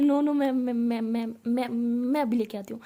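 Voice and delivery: a touch of panicked stammering; tripping over words to reassure the boss; flustered stammer. Acted. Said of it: "ऐसे हिचलाते हुए". (घबराकर हकलाते हुए)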